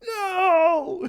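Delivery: long, high, loud wail; anguished yell. Acted. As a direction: scream out in helpless fury. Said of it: "like she was yelling".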